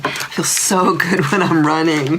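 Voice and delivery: amused reread, chuckle mid-line; fond laugh in the middle. Retold or imitated. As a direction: repeat it with a laugh breaking in. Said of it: "rereading with a laugh".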